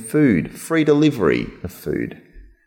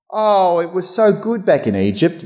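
mock whine; 8 semitones higher than usual. Mocking grumbling Israelites.

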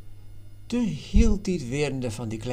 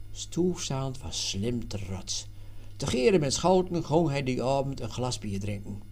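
ordinary delivery

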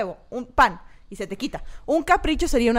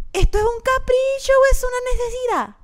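put-on higher, louder voice in a Venezuelan accent; 10 semitones higher, 5 dB louder than usual. Her Venezuelan alter ego asks, in a Venezuelan accent. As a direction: voice the little Venezuelan alter ego in your head. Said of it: "tu alter ego irresponsable es venezolano".

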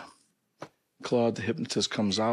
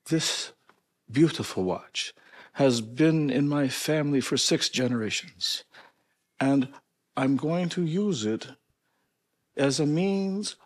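put-on Polish accent; 3 semitones higher than usual. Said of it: "this is my Polish accent".

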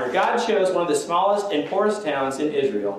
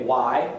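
"Why" set out on its own as the emphasized word; a pointed, stand-alone "Why"; stress on WHY; 3 semitones lower than usual. Shown as a demonstration. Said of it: "and emphasize that".

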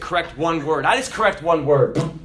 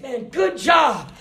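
enthusiastic praise; 8 semitones higher, slower than usual. Shown as a demonstration. Parent praising a child's good grades, enthusiastic. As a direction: cheer the kid on with full warmth. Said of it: "So a preacher".

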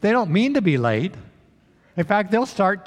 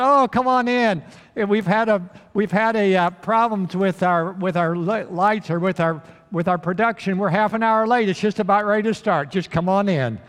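cheerful welcome; 4 semitones higher, 3 dB louder than usual. Acted. Ticket man welcoming them eagerly.

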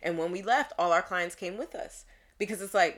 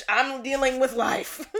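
emphatic retort; 6 semitones higher, 9 dB louder than usual. Acted. Therapist answering surprise she goes to therapy, sassy laughing retort. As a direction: stretch it out in mock exasperation, breaking into laughter.

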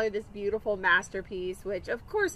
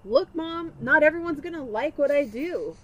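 아들 목소리 살짝 흉내; lightly voiced son; 3 semitones higher, 4 dB louder than usual. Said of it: "he turns to me and goes".

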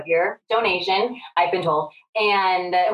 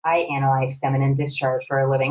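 mock boyfriend; 6 semitones lower than usual. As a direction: lightly lower matter-of-fact man. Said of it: "he's like".

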